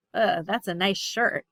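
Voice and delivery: a dubious compliment; sarcastic, unimpressed praise. Shown as a demonstration. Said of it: "difference in tone of voice".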